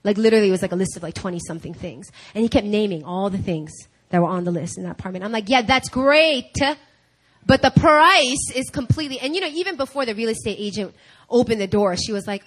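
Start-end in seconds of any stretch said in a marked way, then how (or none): 5.5-9.2 drawn-out great, then louder objection; grudgingly agree, then protest the cost; exasperated concession. Retold or imitated. Wife answering husband's list of features, exasperated.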